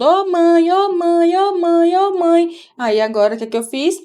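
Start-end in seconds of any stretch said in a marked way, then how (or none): 0.0-2.5 imitating son. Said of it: "ele fica o tempo todo".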